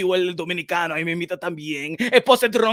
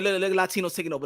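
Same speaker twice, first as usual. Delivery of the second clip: rapid-fire, at usual pitch; quick statement; 4 dB quieter, much faster than usual. Shown as a demonstration. Host putting it to the audience about Latinos, quick statement. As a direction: rattle it off fast. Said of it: "put it this way".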